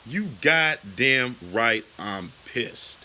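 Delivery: slow, deliberate angry emphasis. Real, not acted. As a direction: drag each word out, seething. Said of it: "I am freaking pissed".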